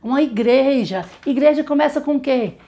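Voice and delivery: pergunta animada e mais aguda à turma; voz de professora com criança. Shown as a demonstration. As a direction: fale como tia da escolinha perguntando. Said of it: "Vamos aprender uma atividade?". (professora animada falando com crianças)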